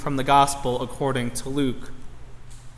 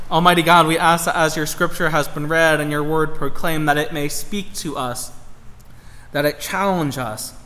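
prayer. Acted. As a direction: pray sincerely, settling down. Leads a prayer.

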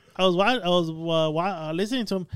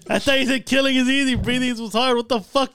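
indignant protest; 7 semitones higher, 6 dB louder than usual. Real, not acted. Defending his misquote, exasperated.

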